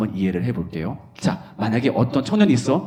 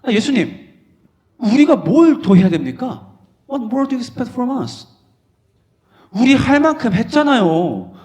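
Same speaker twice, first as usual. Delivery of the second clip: higher, louder pleading complaint; disciples protesting; 6 semitones higher, 5 dB louder than usual. Acted. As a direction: demand what more Jesus wants. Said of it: "제자들이 따져 물은 거예요". (예수님께 따지는 제자들, 억울한 항의)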